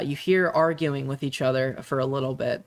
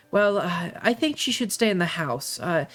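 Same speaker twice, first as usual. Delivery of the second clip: lightly higher, sweet-talking mother voice; voiced mother; 5 semitones higher than usual. Mother steering the daughter toward staying home, lightly higher. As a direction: coax her to agree, a touch higher.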